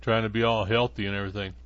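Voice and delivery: talking while chewing a carrot; mouth full. Real, not acted. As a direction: chew and talk with a mouthful. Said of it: "I'm chewing a carrot".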